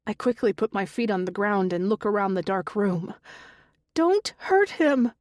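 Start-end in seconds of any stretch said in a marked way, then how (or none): 3.9-5.1 high, loud, slow desperate shriek; shrieking plea. A narrator's reading. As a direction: shriek it, begging. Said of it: "a woman's voice shrieks".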